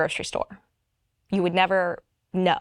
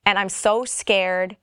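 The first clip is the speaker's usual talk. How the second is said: ordinary talk, nothing marked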